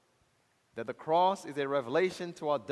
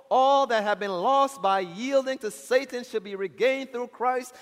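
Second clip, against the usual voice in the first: declaimed sermon reading; 5 semitones higher, 6 dB louder than usual. Real, not acted. Reads quotation in preaching voice.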